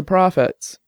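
"profits" leaned on with a touch of bitterness; mildly bitter emphasis landing on "profits"; bitter stress on last word. Acted. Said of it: "She emphasized the last word with bitterness".

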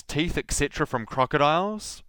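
ordinary talk

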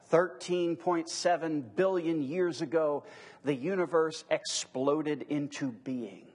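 slow, grave announcement of the Big Bang; mock solemn science claim. Preacher mocking the solemn phrasing of the Big Bang, slow and grave. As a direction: intone it like a textbook pronouncement. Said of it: "you might have heard it phrased this way".

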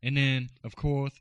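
lightly lisping smooth radio host; a hint of lisp, smooth and easy; Ladies' Man lisp. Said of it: "my man of a hundred voices".

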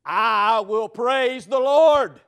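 slow, swelling to a loud cry of faith; Job's defiant faith. Retold or imitated. Job answering his accusers, slow and triumphant. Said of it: "Job said".

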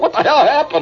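a high, mock-startled exclamation; startled what the hell. Actress onstage after the bed collapses, mock-startled and high. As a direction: voice the actress's shocked stare. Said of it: "with this wild look".

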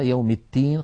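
"التين" with t in place of d; dal close to ta. Shown as a demonstration. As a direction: show the faulty "التين", d slipping into t. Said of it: "قريبة من التاء".

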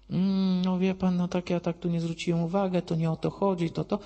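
acted hemming and hawing; flustered backtracking. Flustered witness caught out, acted.

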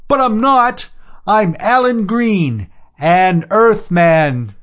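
high, loud calls with drawn-out ends; desperate joyful shouting. A narrator's reading. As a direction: shout to be heard far away. Shouting to distant ships.

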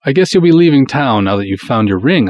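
calling after him. Acted. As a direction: call out to someone leaving. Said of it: "I call after him".

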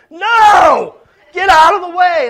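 high, loud shout; hammed-up outburst at the driver ahead; mock furious shout. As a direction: yell it like you're tearing your clothes. Acting out Paul-like frustration.

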